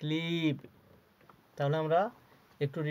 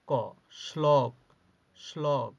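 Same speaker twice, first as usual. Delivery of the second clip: slow model reading; 4 dB louder, much slower than usual. Shown as a demonstration. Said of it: "তোমরা আমার সাথে সাথে উচ্চারণ করো".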